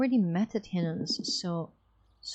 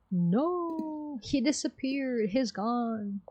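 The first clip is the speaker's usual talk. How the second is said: higher, stunned exclamation; higher astonished gasp of words; shocked; 4 semitones higher, much slower than usual. Acted. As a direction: react in disbelief he's gone. Guard shocked he vanished.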